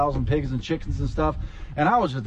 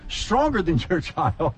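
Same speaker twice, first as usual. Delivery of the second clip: mock bragging. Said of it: "bumper sticker is basically saying".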